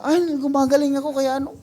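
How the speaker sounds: high, loud mock believer crying healing; mock devotee. Preacher mocking a devotee who claims healing, high and loud. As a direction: imitate the excited devotee.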